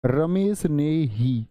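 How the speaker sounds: slow, with रमेश leaned on; stress on ही. Shown as a demonstration. Teacher repeating emphasis for students. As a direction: press the whole phrase. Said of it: "अब मैं जोर दे रहा हूं".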